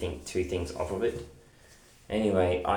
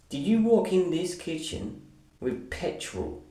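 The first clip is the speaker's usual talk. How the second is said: higher, sharp accusing question; mock angry accusation; 8 semitones higher than usual. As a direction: confront him like she caught him red-handed. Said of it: "went off her rockers at me".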